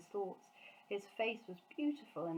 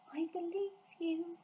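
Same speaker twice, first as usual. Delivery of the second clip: softly; 11 semitones higher than usual. A narrator's reading. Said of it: "she said softly".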